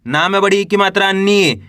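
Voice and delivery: नी held with a falling tune; spelling aloud. Shown as a demonstration. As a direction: spell it out, settling on a long नी. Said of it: "चलिए देखिए".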